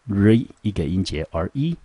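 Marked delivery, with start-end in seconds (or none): 0.1-0.5 "re" said alone, drawn out; first syllable alone. Shown as a demonstration. Teacher breaking respect into syllables, isolated syllable. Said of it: "第一个音节".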